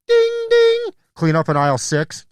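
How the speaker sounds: very high chiming store-robot voice; robot announcement. Retold or imitated. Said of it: "then it goes".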